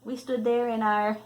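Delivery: reading a picture book to a grandchild; storybook reading. Acted. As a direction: read it out gently, like a bedtime story. Grandmother reads picture book aloud.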